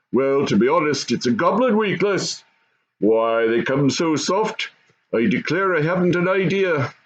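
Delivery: lightly voiced goblin father.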